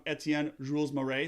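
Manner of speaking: self-mocking attempt at French pronunciation of names; terrible French accent. Shown as a demonstration. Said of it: "That's my terrible French accent".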